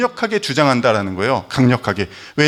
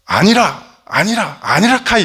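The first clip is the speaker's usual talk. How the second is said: punchy Gyeongsang "아니라 카이" climbing higher; Gyeongsang dialect; 5 semitones higher, 3 dB louder than usual. Shown as a demonstration. Pastor imitating the east's no, in Gyeongsang dialect. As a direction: bark "아니라 카이" like a Gyeongsang man. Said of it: "동쪽에서는 어떻게 얘기합니까".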